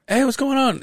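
dad's greeting in a high-pitched voice; high, drawn-up "hey" imitating a father. Son retelling dad's phone call, imitated high greeting. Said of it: "He called me and he goes".

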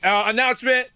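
mock announcement. Hell staff announcing a bonus weekend, mock announcement. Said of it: "They're like".

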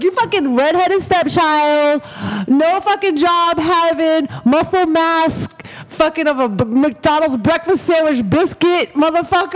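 slow, drawn-out mock tirade; retold insult rant. Retelling her rant at the guy, slow mock fury. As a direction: spit each insult out slowly. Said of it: "I came for his fucking life".

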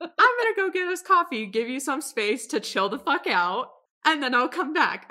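sing-song fake calm to a partner; mock patient Ian. Voicing Ian calming Mickey.

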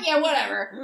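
high, laughing mock shrug; echoing the quote while laughing. Real, not acted. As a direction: repeat it through a laugh.

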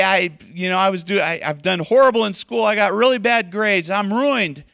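mock panic over bad grades; a worked-up voice of a failing student; despairing student.

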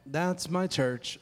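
low, slow, soft and unemphatic; just read it off with no emphasis; flat reading. Shown as a demonstration. Pastor showing congregation how not to say it, flat reading. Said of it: "can't just read it like".

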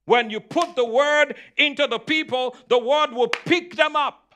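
driving, insistent sermon delivery; emphatic preaching. Real, not acted. Preacher urging the congregation to trust the word, emphatic preaching. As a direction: preach it with punchy stressed key words. Preacher builds up his message.

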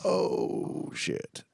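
drawn-out, breathy "oh" of shock; stunned crowd reaction. Retold or imitated. Retelling how everybody reacted to the comeback, stunned. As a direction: imitate an audience taken aback. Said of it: "everybody's like".

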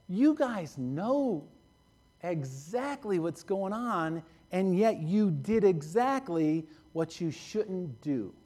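Jesus rebuking the leaders slowly and softly, the disappointment showing; slow, soft rebuke. Acted. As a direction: say it slowly and softly, like a grieved reproach.

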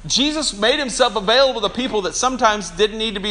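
ordinary talk, nothing marked

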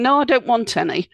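mildly exasperated refusal, rising; a touch of irritation on the no. Shown as a demonstration. Host offers cake, guest refuses with mild exasperation. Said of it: "in an exasperated voice".

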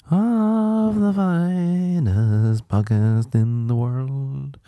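slow, high, grand show-host voice; a hammed-up posh announcer welcoming listeners; mock posh host. Mock grand podcast host opening.

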